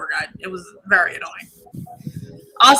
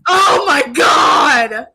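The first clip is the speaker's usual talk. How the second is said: excited shout; 4 semitones higher, 4 dB louder, much slower than usual. Real, not acted. Reacting to the movie twist.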